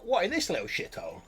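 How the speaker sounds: high sneering goblin. Acted. Goblin mocking the farm to the player, high. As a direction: scoff like a goblin.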